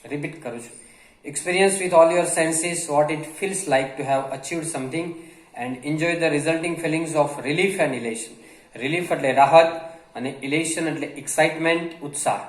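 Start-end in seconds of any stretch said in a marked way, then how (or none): 1.2-8.3 reads the English line very slowly, word by word; slow dictation reading. Acted. Teacher reading a passage slowly to Gujarati learners. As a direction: spell it out slowly for the students.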